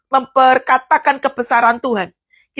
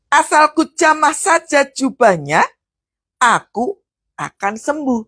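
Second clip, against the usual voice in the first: slow, deliberate quote; slower than usual. Acted. Quoting the woman's faith.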